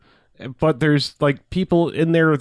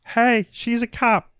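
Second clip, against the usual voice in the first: much higher, slow put-on voice, calling out; tattletale guy in car; 11 semitones higher, slower than usual. Guy in the car warns the pimp, high slow call. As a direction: sing it out like a snitch. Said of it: "the guy in the car is just like".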